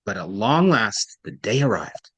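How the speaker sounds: "long last" drawn with weight, low fall on "the day arrived"; stress on long last. Shown as a demonstration. Teacher models for student, stressing "long last". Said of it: "I also emphasized long last".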